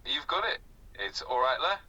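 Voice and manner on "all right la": lightly Scouse, rising friendly greeting; hint of Liverpool accent, lifting at the end. Shown as a demonstration. Tutor demonstrates a famous Liverpool greeting, lightly Scouse. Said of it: "famous phrases associated with the Scouse accent".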